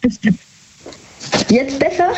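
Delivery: hollow, far-off voice on the phone; like calling from an empty hall; echoey distant phone. Real, not acted. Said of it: "Ach, so hallig, so weit weg?".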